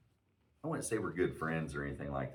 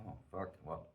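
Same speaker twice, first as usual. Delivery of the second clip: much softer, muttered to himself; retold sinking realization under the breath; quiet dismay; 10 dB quieter than usual. Caught out by the guy in the stall, dismayed. His dismayed reaction to being challenged.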